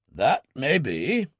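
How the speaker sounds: slow, unruffled and even; calm. Acted. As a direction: brush off the accusation coolly, slowly. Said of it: "Ferguson said calmly".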